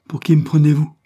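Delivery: high, loud indignant snap; sharp sour retort. A narrator's reading. Sister snaps back at her brother, indignant. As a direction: bristle at the insult. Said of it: "répliqua-t-elle vivement et d'un ton aigre".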